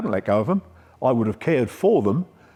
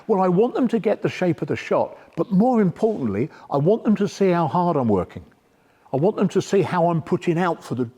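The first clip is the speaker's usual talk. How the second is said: higher, emphatic imitation of an earnest coach; Mark Cox; 5 semitones higher than usual. Coach explaining why he demonstrates, higher imitated voice. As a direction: voice the coach's reasons in raised pitch.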